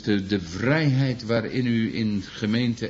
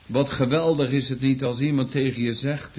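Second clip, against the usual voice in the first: usual speaking voice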